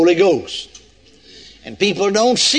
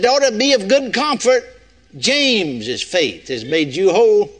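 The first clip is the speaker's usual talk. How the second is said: mock misquote; 2 semitones higher than usual. Shown as a demonstration. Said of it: "No, took more than that".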